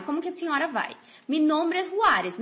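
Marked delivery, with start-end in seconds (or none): 1.3-2.4 slow model sentence. Shown as a demonstration. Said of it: "model sentence".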